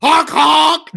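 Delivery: high loud clown honk; silly clown. Acted. Declaring himself a fan.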